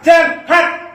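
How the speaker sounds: sharp shout. Acted. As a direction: throw him out with one shout. Tough woman drives man off.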